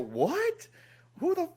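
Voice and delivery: high, stunned disbelief; shocked squeak. Retold or imitated. Hearing a celebrity name him, stunned and high. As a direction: jump up high in surprise. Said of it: "And I go".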